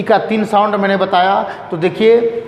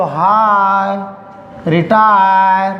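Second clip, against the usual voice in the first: slow demo; much slower than usual. Shown as a demonstration. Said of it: "आय बचा हुआ है".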